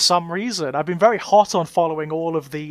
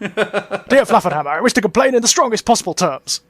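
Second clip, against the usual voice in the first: mock complaint letter; 3 semitones higher than usual. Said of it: "that may be a complaint".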